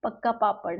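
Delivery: quoting a child reciting "कच्चा पापड़, पक्का पापड़" with a slight put-on voice; tongue twister recital. Teacher recalls parents asking a child to say it, lightly voiced child. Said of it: "आप ये बोल के दिखाओ".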